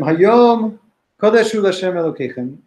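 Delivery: prophet's proclamation. Acted. Quoting Nehemiah's declaration.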